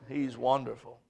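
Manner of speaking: He's wonderful dropped low and soft; hushed after the shout. Acted. Preacher quieting the church after the shout, soft and low. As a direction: pull back to a near hush. Sermon climax then hush.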